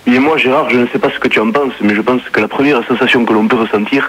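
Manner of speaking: lightly put-on Marseille-style accent, calm and measured; a caller's mild southern French accent, unhurried. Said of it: "C'est quoi cet accent". (léger accent du Midi un peu forcé)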